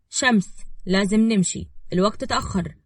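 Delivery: gently composed, understated; calm. Acted. Man urging a mourning woman to leave the grave, calmly. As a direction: coax her calmly. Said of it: "وقال بهدوء".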